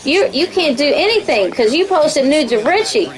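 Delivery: high-pitched accusing impression; Little Mama. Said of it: "that's Big Mama or, or Little Mama".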